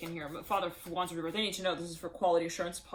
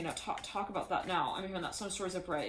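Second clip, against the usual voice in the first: ordinary delivery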